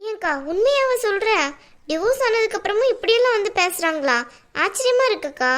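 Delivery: can't believe what she's hearing; surprised. Acted. Brother to divorced sister, amazed at the news. Hears ex-husband's family returned.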